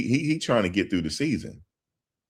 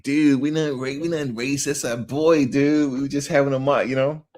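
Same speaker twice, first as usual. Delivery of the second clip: high-pitched mock dude pleading his case; imitated party bro; 8 semitones higher than usual. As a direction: protest like an excuse-making party bro. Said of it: "They're like".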